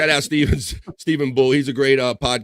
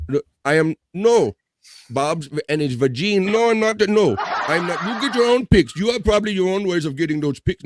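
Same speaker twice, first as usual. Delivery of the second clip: mock protest; 6 semitones higher than usual. Denying to viewer Nasir, higher and laughing. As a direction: protest in a hammed-up squeak.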